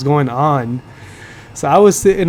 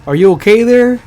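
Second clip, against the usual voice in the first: higher, louder teacher catchphrase; mock teacher voice; 7 semitones higher, 6 dB louder than usual. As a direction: ham up the clueless teacher's concern. Teacher calls out Jeff X.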